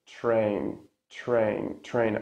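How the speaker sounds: "train" with TR sounding almost like "chrain". Shown as a demonstration. Teacher models "train" for students, ch-like T. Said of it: "sounds almost like ch".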